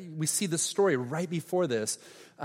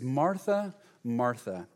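tender; 2 semitones lower, slower than usual. Acted.

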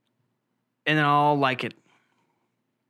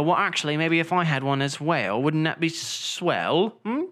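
playful put-on British accent; lightly hammed-up British accent. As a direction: join in with a mock British accent. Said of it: "stop with your British accent".

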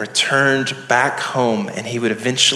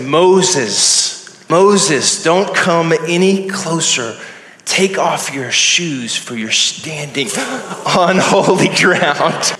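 voice of God; 4 semitones higher, slower than usual. Acted. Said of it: "from the bush, a voice said".

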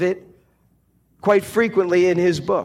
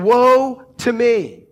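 slow, louder cry of woe; 3 semitones higher, 4 dB louder, slower than usual. Acted. Isaiah pronouncing doom on himself, slow and anguished. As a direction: drag it out as a lament. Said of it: "he's saying".

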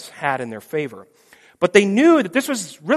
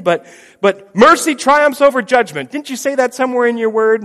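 pleading son; 4 semitones higher, 5 dB louder than usual. Pretend. Jesus begs the Father for mercy, high and pleading. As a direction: coax a father, high and begging.

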